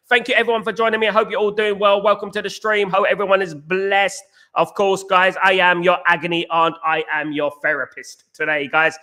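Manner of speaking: upbeat stream greeting. Real, not acted.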